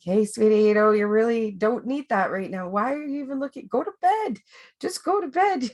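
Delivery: a kind mentor gently shooing you off to bed, voice rising and rising; imagined coach's voice. Retold or imitated. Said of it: "I hear Chris's voice in the back of my head going like".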